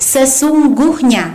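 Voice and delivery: sesungguhnya drawn out slowly, syllable by syllable; word intonation. Shown as a demonstration. Teacher giving an example of word intonation, slow stressed word. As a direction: stretch SESUNGGUHNYA, leaning on its consonants. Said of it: "kita boleh menaikkan suatu kata".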